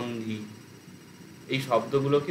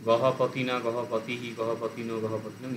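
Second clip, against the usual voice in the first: rattled off; 2 semitones lower than usual. Shown as a demonstration. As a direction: run the forms together in one breath. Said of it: "আমিও তো হু হু করে বলছি". (হু হু করে একটানা বলা)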